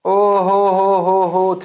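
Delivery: slow drawn-out "ओ हो हो" exclaim; hammed-up oh-ho-ho. Teacher mock-marvels at 3D question, slow exclaim. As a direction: ham up the surprise.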